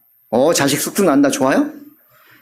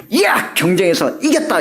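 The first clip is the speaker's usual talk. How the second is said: triumphant cry. Acted. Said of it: "이런 뜻이에요".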